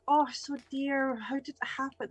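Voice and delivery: put-on fussing old lady. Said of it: "she's like".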